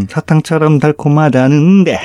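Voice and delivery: exaggerated, lilting delivery of the lyric; quirky line reading. Co-host echoing a girl group's lyric for laughs, quirky. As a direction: ham up the Korean lyric with a strong quirk. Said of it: "癖が強いですね".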